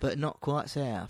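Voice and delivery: slow, tentative Midlands accent; unsure attempt at a Wiltshire-Midlands accent; Midlands English accent. Shown as a demonstration. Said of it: "pretty sure Wiltshire is like, yeah, Midland".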